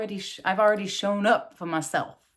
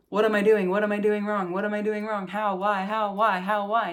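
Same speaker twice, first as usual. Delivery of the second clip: rapid-fire self-questioning, run together; mock fretting; 3 dB louder than usual. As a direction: spiral through the questions without a breath. Acting out fretting over the cycle.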